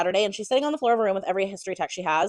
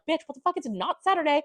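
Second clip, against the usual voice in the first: mock shocked scold; 8 semitones higher than usual. Librarian friend startled, scolding.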